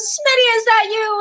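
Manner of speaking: high, sing-out retold hail; calling out. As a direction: imitate a sergeant checking who's up ahead. Sergeant hailing her on the trail.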